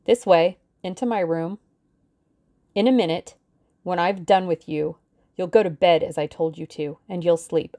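cold threatening woman's voice; menacing villainess. Acted. Villainess orders girl.

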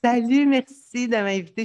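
high, loud thanks; bursting with excitement to be invited; excited. Real, not acted. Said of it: "je suis vraiment full excitée". (remerciement très enthousiaste)

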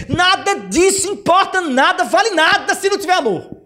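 high, fervent indignant outburst; acted apostle boiling with indignation; indignant Paul. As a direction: rail at the squabbling church, acted. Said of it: "Eu não tô bravo, não. Paulo que tava".

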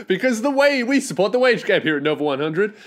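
lightly hammed-up drive-time host intro; mock radio host intro. Parodying a drive-time radio show opening, hammed-up host. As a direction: sell it like a slick host, tongue in cheek. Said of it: "This is how it would go".

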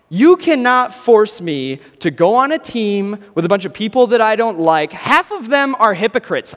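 silly high falsetto for a huge man, loud and protesting; squeaky huge guy. Acted. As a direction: play the big guy with a tiny squeaky voice. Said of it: "that's probably not how he would sound".

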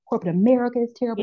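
high, fast mock-militant declaration; hammed-up activist outrage at corporations. Telling the host how she scorned corporate jobs, high mock-militant outrage. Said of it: "like, militant".

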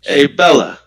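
put-on tough-guy Boston accent. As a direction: call out to her in a Boston accent. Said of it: "speaking in a Boston accent".

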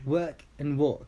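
"Work" with an er vowel, "walk" with an aw vowel, drawn out; work versus walk. Shown as a demonstration. Teaching a learner two words, slow er in "Work", open aw in "walk". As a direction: say "Work" and "walk" slowly, contrasting er with aw. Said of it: "let me pronounce it again".

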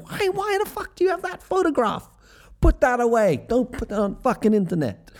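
high-pitched mock outrage at mom; mortified protest. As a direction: squeal in embarrassment, acted out. Embarrassed child objects to mom's photo.

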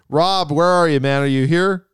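calling loudly across the room. Real, not acted. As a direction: shout out to find him. Host calling out for Rob.

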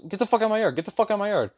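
imitating a high, furious yell; mock the neighbor yelling at him; retold angry yell. Angry neighbor yelling from the shore, imitated high and furious. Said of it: "kept cussing me out".

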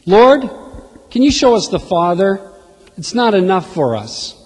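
Philip's eager plea, "Lord" called out loud and high; hungry plea. Retold or imitated. Philip pleading with Jesus to show the Father, loud and eager. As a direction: beg like a hungry man.

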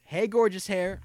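high, bright compliment; gushing lady. Retold or imitated. Another customer opens with praise for the red hair, high gushing. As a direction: squeal the compliment. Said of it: "first thing she said".

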